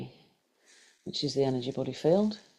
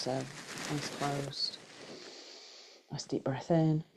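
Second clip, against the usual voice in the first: unhurried guided meditation voice, long pauses. Acted. Teacher guiding a group through breath and body scan, guided meditation. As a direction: lead them gently through breath and body, leaving space.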